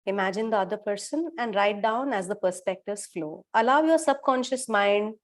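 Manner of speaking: measured, settled guiding voice with long pauses; guided visualization. Acted.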